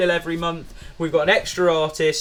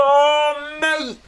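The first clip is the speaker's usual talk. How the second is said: much higher hammed-up leering sigh; mock leering Vin; 11 semitones higher than usual. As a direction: drawl it as a mock lecherous star. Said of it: "it's just like".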